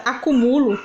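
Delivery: acumulo read without its accent, stress on MU; misplaced stress on MU; stress shifted to MU in acumulo. Shown as a demonstration. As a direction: say a-cu-MU-lo, leaning on MU. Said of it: "acumulo não existe, acúmulo sim".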